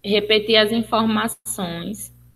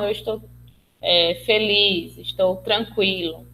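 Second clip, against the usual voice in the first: happy, calm intonation. Shown as a demonstration. Therapist demonstrating calm, happy tone to a listener. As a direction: ease off and sound content and calm. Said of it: "fazer uma entonação das palavras".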